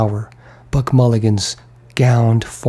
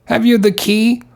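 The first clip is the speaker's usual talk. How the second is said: lightly voiced Englishman; 11 semitones higher than usual. Haynes's voice asking.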